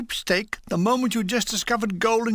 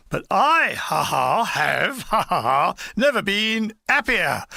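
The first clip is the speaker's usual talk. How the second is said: forced laugh; slower than usual. Retold or imitated. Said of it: "said Edgington".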